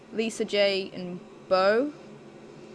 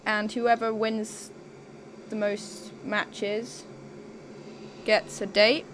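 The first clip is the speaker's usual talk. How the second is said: robot voice; 3 dB quieter than usual. Real, not acted. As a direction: drone it out like a robot. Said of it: "Why do you talk like a robot?".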